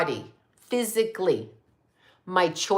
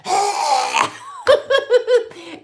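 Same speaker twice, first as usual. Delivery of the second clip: high, forceful "haah" breaking into laughter; imitated loud exhale; 11 semitones higher, 4 dB louder than usual. Hiker taunting the woman in meltdown, loud mocking exhale. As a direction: re-enact the noise, then crack up laughing. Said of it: "and I'm like".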